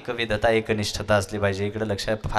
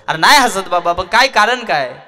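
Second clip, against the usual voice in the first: curious Rama; 8 semitones higher, 9 dB louder than usual. Acted. Rama questions Hanuman.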